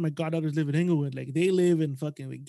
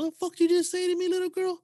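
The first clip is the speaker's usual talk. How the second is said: higher, louder imitated street threat; mock angry woman; 12 semitones higher, 4 dB louder than usual. Retelling the woman from the car threatening, hammed-up. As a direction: play the woman from the car squaring up.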